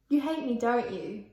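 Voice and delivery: botched British sliding into Australian; lightly faked Australian accent; accidental Australian accent. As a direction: try an Australian-sounding accent. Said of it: "That's Australian, isn't it?".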